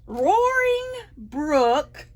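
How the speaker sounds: drawn-out roaring title; loud roar. Shown as a demonstration. Reading the title loud to the kids, roaring. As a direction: roar the title word out slowly. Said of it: "Oh, that's loud".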